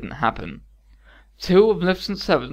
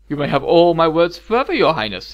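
louder, courtly vow; gallant promise; 2 semitones higher, 6 dB louder than usual. Acted. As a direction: charm her with a promise. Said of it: "he promised".

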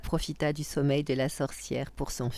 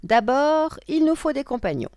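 loud, high witch announcing a plan; 12 semitones higher, 9 dB louder than usual. Acted. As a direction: declare it as a bossy witch. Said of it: "dit la sorcière".

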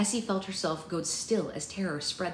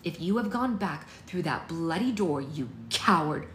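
angry; 4 dB louder than usual. Acted. Essie storms upstairs at mother.

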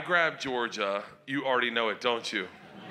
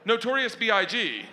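put-on innocent little girl voice; 11 semitones higher than usual. Daughter voiced, high and innocent.

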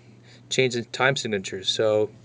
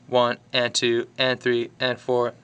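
lilting swung count, long-short. Shown as a demonstration. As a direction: lean into the swing feel. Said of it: "in music that swings".

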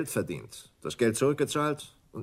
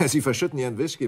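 amused laugh; 4 semitones higher, 5 dB louder, faster than usual. Acted. Mocks guest spilling whisky.

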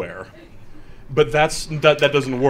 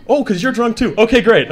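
laughing; 8 semitones higher, 7 dB louder than usual. Acted. Acted relief, laughing.

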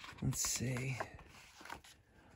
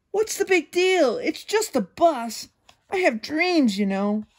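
wheedling pigeon; 3 semitones higher than usual. Acted. Host voices the Pigeon begging.

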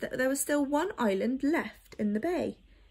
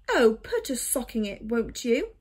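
grumbling; 4 dB louder than usual. Acted. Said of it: "grumbled a creaky voice".

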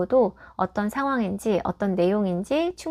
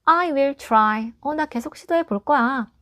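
higher-pitched storybook pig; lightly acted resolve, pitched up; Piggie's determined line; 4 semitones higher, slower than usual. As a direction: read it out as a plucky little character. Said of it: "계속 할 거라고 얘기하고".

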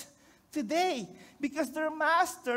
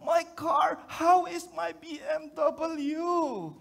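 shouting victim; 3 semitones higher, slower than usual. Retold or imitated. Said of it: "And he says".

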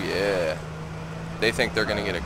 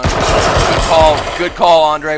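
excited; 5 semitones higher, 9 dB louder, much slower than usual. Real, not acted. Teammate cheering a good callout.

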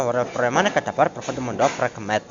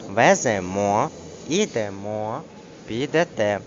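ВЕЗЕМО, ІДЕМО, ПІДЕТЕ each landing on the last syllable; final-syllable stress. Shown as a demonstration. Teacher demonstrating verb endings, stress on last syllable. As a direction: stretch the final MO and TE. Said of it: "мають наголос на останній літері".

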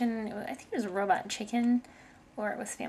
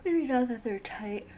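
whispering. Real, not acted. Muttering to herself while playing.

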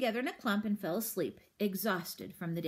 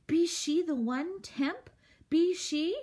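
higher, louder, eager creature questions; eager roach voice; 7 semitones higher, 4 dB louder, slower than usual. A narrator's reading. Roach eagerly asking Temp about the princess. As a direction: press the question with awe.

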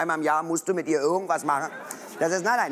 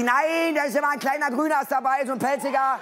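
put-on girlfriend's voice; 6 semitones higher than usual. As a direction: play her as sure she's right.

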